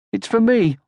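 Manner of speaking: lightly voiced young troll, hopeful; a small hopeful troll, half to himself; Moomin Troll. A narrator's reading.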